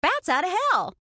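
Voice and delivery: high, loud showman reveal; dramatic announcement. Acted. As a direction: announce it like a spooky title. Dramatic game title announcement.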